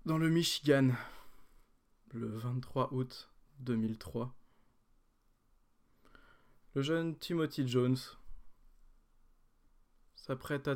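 trailer narrator voice; dramatic narration. Acted. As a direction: tell it like an epic origin. Dramatic origin story narration.

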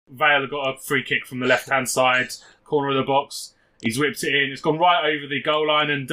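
lightly voiced match commentary; radio commentary. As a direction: call the goal like local radio.

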